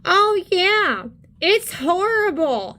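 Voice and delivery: high, swooping sarcastic imitation; heavily sarcastic mock sympathy; mocking sarcasm. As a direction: mimic his sarcasm with exaggerated high pitch. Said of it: "You can hear the sarcasm in his voice".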